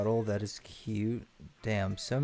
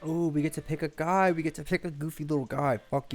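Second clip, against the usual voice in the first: excited; 5 semitones higher than usual. Real, not acted. Delighted at character pick.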